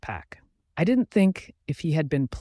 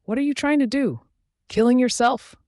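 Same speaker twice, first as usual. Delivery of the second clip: high, loud shocked questioning; appalled outburst, pitch leaping up; alarmed disbelief; 10 semitones higher, 4 dB louder than usual. A narrator's reading. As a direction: cry out in horrified disbelief. Alarmed at an apparent hanging.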